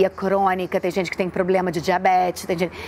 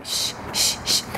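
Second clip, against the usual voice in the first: hushing; 4 dB quieter, much slower than usual. Real, not acted. Hushing child to sleep.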